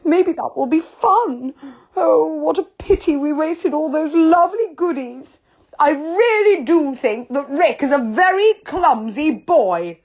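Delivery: high teary voice, slowly brightening; tearful relief. A narrator's reading. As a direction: sniffle then cheer up. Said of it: "wiping his eyes".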